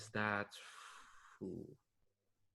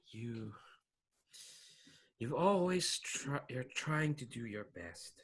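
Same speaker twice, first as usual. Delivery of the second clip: halting ghost mentor with long pauses; lightly voiced mentor's caution; chiding ghost. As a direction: sigh and gently warn a pupil, trailing into softness. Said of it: "in a chiding kind of tone".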